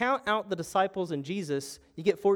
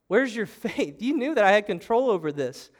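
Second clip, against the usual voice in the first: louder, higher challenge imitating Jesus; forceful reproach; 6 semitones higher, 5 dB louder than usual. Jesus challenges disciples who knew his power, forceful reproach. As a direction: press the question hard, acting out a rebuke.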